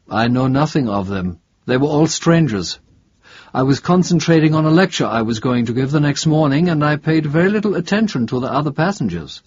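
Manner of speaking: a touch of the preoccupied academic; lightly voiced professor. Professor questioned about fellow bus passengers, lightly voiced. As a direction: lightly play a professor explaining himself.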